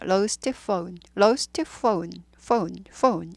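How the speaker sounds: lost phone repeated carefully, phone as foh-oon; phone with f and o sliding into u; model pronunciation. Shown as a demonstration. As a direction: drill lost phone with the o-u glide. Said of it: "이렇게 되고요".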